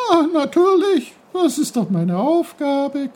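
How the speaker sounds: high, bubbly happy brook; happy chuckle. Acted. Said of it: "gluckste der Bach glücklich".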